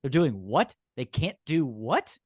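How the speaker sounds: baffled, each question rising at the end; mock bewilderment. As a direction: question it like a lost newcomer. Voicing baffled newcomers to the rules.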